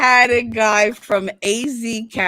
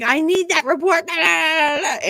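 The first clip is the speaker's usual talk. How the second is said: fishwife; 4 semitones higher than usual. Retold or imitated. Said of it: "you just went from, like, fishwife".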